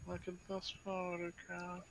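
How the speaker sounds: quiet under-breath mutter. A character looks at you, then walks away: muttering under his breath. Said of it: "you can hear him under his breath".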